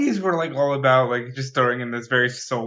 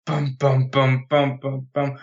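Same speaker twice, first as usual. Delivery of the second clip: imitated Inception horn; slower than usual. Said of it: "replaced with the Inception boing".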